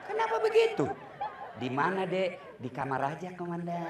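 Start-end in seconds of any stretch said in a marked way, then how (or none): 1.6-3.8 a wife cooing to the commander on the phone; mock sultry phone greeting. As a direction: croon it like a flirting wife. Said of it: "jangan mendayu-dayu".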